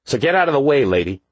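high, loud dismissive order; aggressive thug. A narrator's reading. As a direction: push her aside. Youth orders cop aside.

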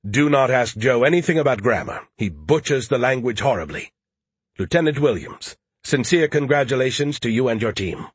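lightly voiced haughty, emphatic know-it-all; snarky know-it-all. Skippy interjects about Joe's grammar, lightly voiced snark.

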